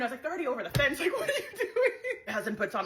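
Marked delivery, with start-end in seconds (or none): 0.2-1.9 laughing. Real, not acted. Laughing at the fleeing kids.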